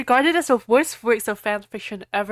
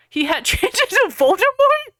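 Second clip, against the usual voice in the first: surprised; 12 semitones higher, 5 dB louder than usual. Real, not acted. Reader's disbelief at the plot.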